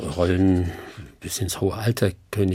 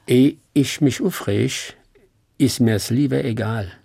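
Hessian dialect; 3 dB louder than usual. Shown as a demonstration. Actor gives the host his favourite saying in relaxed Hessian dialect. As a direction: savour each word of the Hessian saying. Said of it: "Feinstes Hessisch".

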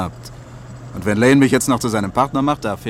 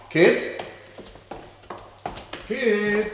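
calling out; 11 semitones higher than usual. Acted. Calling wife through the house.

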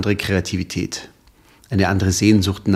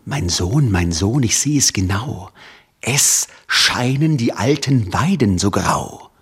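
calm father. Acted.

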